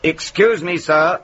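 hint of a joke-teller's policeman; lightly acted policeman. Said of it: "says the policeman. Oh, here I thought I might do an accent".

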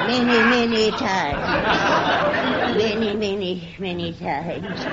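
slow, savoured, laughing. Acted. Coy boast, repeated stretched out.

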